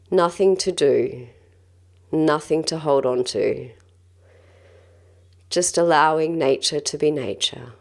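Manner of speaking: calm, gentle guided-breathing voice; measured meditation guide, leaving space between phrases. Acted. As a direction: lead them through breathing with long, unhurried pauses.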